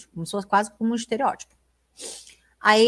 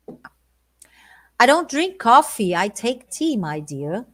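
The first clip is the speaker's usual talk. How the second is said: slow, stately reading of the lyric; a mild put-on English gentleman; lightly posh Englishman; 4 dB louder, much slower than usual. Shown as a demonstration. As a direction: act a touch of the proper Englishman. Teacher reads English lyric, performs.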